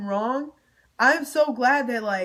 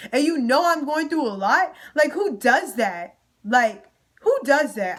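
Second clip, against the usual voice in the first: heated and higher, pushing louder; angry rant; 4 semitones higher, 3 dB louder than usual. Real, not acted. Girl rants at the fake friends, heated, higher and louder. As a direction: tell them off for their fake energy.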